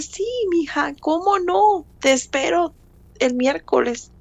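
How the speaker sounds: a hint of an eager church friend; friend's cheerful reply.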